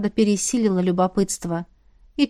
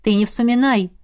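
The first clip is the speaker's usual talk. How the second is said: lightly voiced preachy remark, slowing at the end; a touch of lecturing a friend. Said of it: "нравоучительно подметила Эльза". (назидательно, слегка замедляя)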